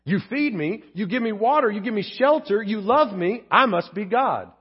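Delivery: self-satisfied cat, slowing on the last line; a hint of a self-important cat; lightly voiced smug cat. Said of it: "That's a cat".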